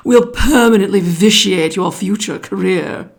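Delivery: lightly voiced pompous python; python snake. A narrator's reading. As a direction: lecture grandly like a fussy snake. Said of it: "the way all bicolored python rock snakes always talk".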